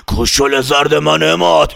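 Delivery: slow, eerie voice through a laugh; slow cackling hag voice; witchy old woman. Acted. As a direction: menace the boy like a witch. Fakhri khanum voiced menacing.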